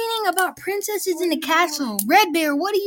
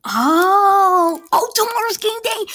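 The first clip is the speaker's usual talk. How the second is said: shrieking jackpot winner; 5 semitones higher, 5 dB louder than usual. Acted. Thrilled news of game day.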